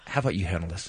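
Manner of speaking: low, soft, defeated offer; sheepish surrender. Retold or imitated. Humbled novice handing directing back to the actor, sheepish. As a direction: hand it over quietly and low.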